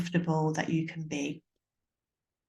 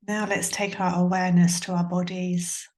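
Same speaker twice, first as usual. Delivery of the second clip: calm, measured meditation voice with long pauses; guided meditation. Acted. Yoga teacher guiding listeners to tune into sounds and body, guided meditation. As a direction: guide a listener gently, leaving space between phrases.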